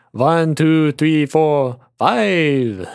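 drawn-out, building count; showy count-up. Pretend. Host begging listeners for five stars, showy count.

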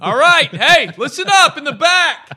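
high, loud coach shout; coach pep talk. Pretend. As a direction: bark orders at the team. Santa's locker-room speech to elves.

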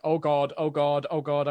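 loud, breathless, panicky muttering; a nervous researcher losing her nerve. Acted. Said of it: "just looking very nervous and uncomfortable".

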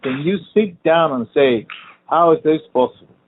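loud, high exasperated demand; pissed off. Real, not acted. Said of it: "pissed me off".

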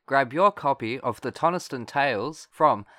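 upbeat book promo read. Acted. Announcer urges listeners to buy the book, upbeat ad read. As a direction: sell the book to listeners, ending on a lifted sign-off.

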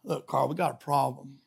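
low, soft, hesitant voice of God; God breaking bad news. God telling the preacher he must go back, low and apologetic. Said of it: "And God saying".

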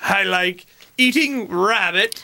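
lightly voiced old-time dater; hint of an antique lonely-heart; sixteen-hundreds dater. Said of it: "back in the sixteen hundreds".

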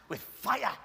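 playful Welsh accent on fire; a light Welsh lilt. Shown as a demonstration. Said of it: "Can we say it with a bit of a Welsh accent?".

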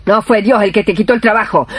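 normal talking voice

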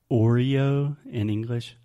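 "Oreo" said slowly with a clear R; Oreo in English. Shown as a demonstration. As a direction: say "Oreo" slowly, gliding through the R. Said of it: "there you're combining R sounds".

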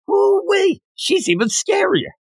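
very high, mock scared squeal; mock fearful squeal. Sana mocking fear of a crime boss, squealed high. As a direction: squeak it in fake fright. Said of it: "the next thing".

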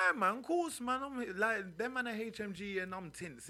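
loud and high, fired up; excited. Real, not acted. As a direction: burst out with enthusiasm. Emphatic reply about crew.

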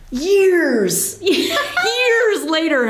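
laughing through the words. Real, not acted. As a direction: giggle while saying years later.

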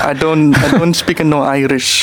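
slow, muddled all-purpose foreign accent; botched Irish accent, drawn out; failed Irish accent. Shown as a demonstration. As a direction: attempt Irish and land in a generic foreign accent. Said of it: "I think you have one accent".

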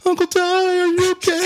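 put-on very high-pitched little-girl voice; put-on tiny kid voice, way up high; young niece. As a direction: imitate a worried child on the phone. Acting out his young niece on phone.

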